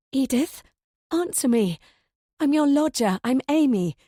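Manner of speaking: urgent pleading. Acted.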